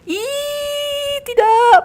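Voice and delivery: squeal, then cry out in alarm; high-pitched game panic; panicked squeal. Real, not acted. Attacked in game.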